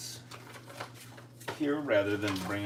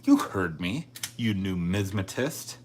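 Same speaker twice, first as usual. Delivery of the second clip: louder, playfully taunting jab; mock insult; 6 dB louder than usual. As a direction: throw it back like a teasing insult. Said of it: "that could sound like an insult".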